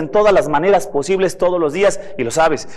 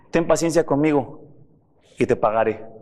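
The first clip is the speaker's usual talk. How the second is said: pleading; 3 semitones lower, 4 dB quieter than usual. Retold or imitated. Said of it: "le suplicaba diciendo".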